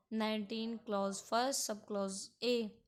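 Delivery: "नाइनटीन क्लॉज फर्स्ट सब क्लॉज ए" read level by level; corrected article reading. Shown as a demonstration. Teacher repeating the proper way for Article Nineteen, "सब क्लॉज" said in full. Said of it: "इस तरीके से हमको उच्चारण करना है".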